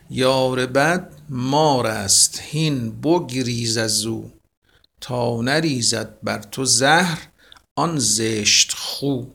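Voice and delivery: slow, measured verse reading; teacher reciting Hafez; poem recitation. Acted. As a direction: recite it like classical poetry.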